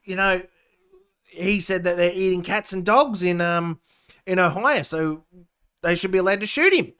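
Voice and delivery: mocking the pundits, a touch of whining; mock leftist. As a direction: whine like a smug pundit. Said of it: "and they're like".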